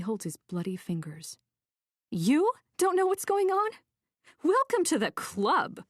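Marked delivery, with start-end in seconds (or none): 2.1-5.8 bitter sarcasm. A narrator's reading.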